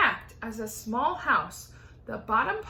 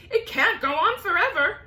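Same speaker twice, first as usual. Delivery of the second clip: high, loud frantic yell; 8 semitones higher, 8 dB louder than usual. Acted. Aunt yelling at the peach to stop.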